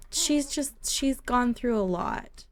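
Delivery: slow, gentle commiseration; sympathetic. Real, not acted. Pitying a character, repeats the words.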